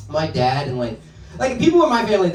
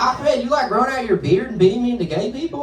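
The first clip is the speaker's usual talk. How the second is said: high, eager redneck bonding voice; excited redneck; 7 semitones higher, 3 dB louder than usual. Acted. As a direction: play a redneck delighted to find common ground. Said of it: "rednecks and terrorists, like, all the same things".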